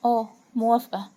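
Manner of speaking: halting, trembling assent. A narrator's reading. Frightened woman giving in to a blackmailer, trembling. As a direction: agree nervously in short bursts. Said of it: "ملاك برعشة".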